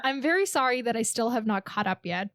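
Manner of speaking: sincere, honest apology; mean every word of the sorry; genuine. Shown as a demonstration. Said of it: "Let me read it in a genuine way".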